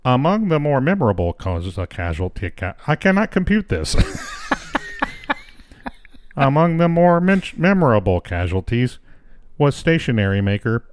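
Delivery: flat mechanical read; robot voice. Pretend. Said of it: "I want to read the rest of this in a robot voice".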